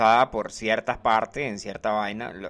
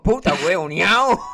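annoyed; 6 semitones higher, 7 dB louder than usual. Shown as a demonstration. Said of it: "molesto con alguien, le puede decir".

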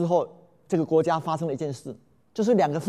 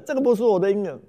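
fading wail; 4 semitones higher, faster than usual. Acted. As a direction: let the wail sink, lean on 不. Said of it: "大声的嚎哭啊".

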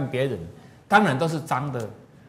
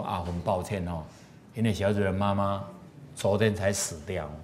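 apologetic father; 5 semitones lower, 6 dB quieter than usual. Retold or imitated. Grieving father apologises to passengers.

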